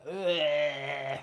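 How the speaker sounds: long drawn-out ugh; disgusted groan. Real, not acted. Disgust at the pay.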